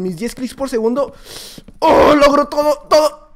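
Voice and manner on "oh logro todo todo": high, loud victory cry; loud high gamer cheer; triumphant shout. Real, not acted. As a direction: crow over the win.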